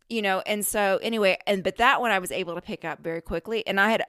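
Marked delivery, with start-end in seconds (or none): none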